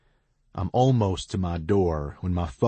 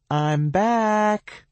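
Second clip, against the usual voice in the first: cheerful; 7 dB louder than usual. A narrator's reading. T B returns cheerfully.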